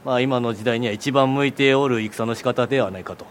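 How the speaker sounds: lightly voiced old samurai lord; warlord speech. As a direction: speak like a feudal warlord. (武将言葉)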